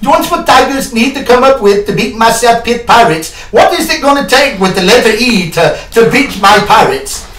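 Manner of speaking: hammed-up pirate host quizzing Paul; pirate Earl. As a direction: quiz Paul like a blustery pirate. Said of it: "Is Earl the pirate?".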